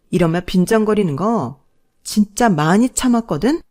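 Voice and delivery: angry tirade. Acted. Wife's angry tirade at husband.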